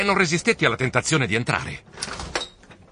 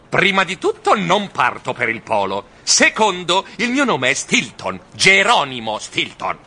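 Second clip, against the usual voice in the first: slightly louder, huffy correction; irritated grumble; 4 semitones higher, 3 dB louder than usual. Acted. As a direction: set the record straight, miffed. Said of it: "borbottai stizzito". (borbottio stizzito)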